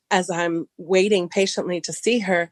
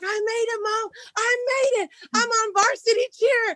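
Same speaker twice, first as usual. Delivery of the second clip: much higher, breathless joy; excited. Retold or imitated. Daughter telling mom she made varsity, thrilled. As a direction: squeal the news, overjoyed. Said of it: "she's like".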